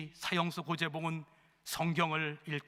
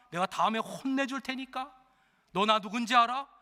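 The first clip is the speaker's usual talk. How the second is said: louder and higher, rough lecturing; gruff scolding convict; 4 semitones higher, 4 dB louder than usual. Acted. Condemned convict scolding a young inmate, loud and rough. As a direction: scold him like a prison boss.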